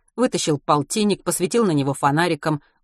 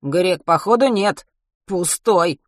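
big thug voice; 3 semitones higher, 5 dB louder, slower than usual. Acted.

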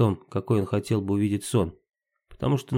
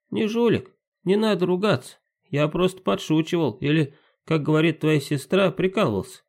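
pixie; 6 semitones higher than usual. Acted. Domovoi Timka answers.

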